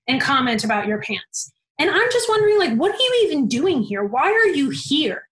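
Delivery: mild mock tirade from the boss; retelling her scolding, a touch heated; retold angry rant. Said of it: "she goes off on me".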